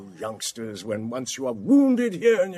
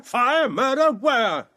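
louder, higher alarmed outcry; startled shout; 8 semitones higher, 5 dB louder, slower than usual. Acted. Sir Anthony answering the servant's cries, startled loud shout. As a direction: jump at the alarm and shout back.

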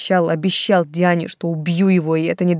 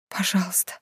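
whisper; 6 dB quieter than usual. A narrator's reading. Desperate mother clings to Tamerlan.

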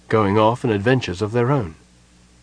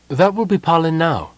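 relieved; 7 semitones higher than usual. A narrator's reading. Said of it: "She sounded relieved".

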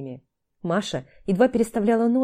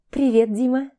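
higher, languid sultry purr; 5 semitones higher, 3 dB louder than usual. A narrator's reading. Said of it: "томным голосом произнесла Маша".

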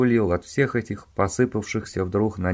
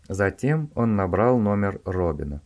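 plain reading voice

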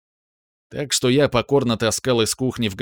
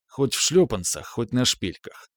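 plain reading voice

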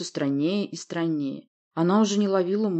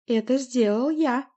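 slow, raised gloating monster voice; mocking, chuckling remark; 7 semitones higher, 3 dB louder, slower than usual. A narrator's reading. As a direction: draw it out with gloating amusement. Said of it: "продолжая посмеиваться".

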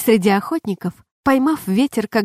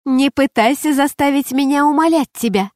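higher-pitched, lightly amused cry; amused exclamation; 5 semitones higher than usual. A narrator's reading. Shay teasing the circling falcon she calls down, amused exclamation. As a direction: exclaim it with a hint of laughter. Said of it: "смеясь, воскликнула Шей".

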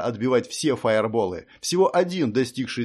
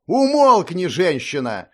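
loud, high, scornful command; contemptuous snap; 5 semitones higher, 6 dB louder, slower than usual. A narrator's reading. Hunter silencing Mira, scornful and loud. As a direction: shut her up with contempt. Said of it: "бросил охотник".

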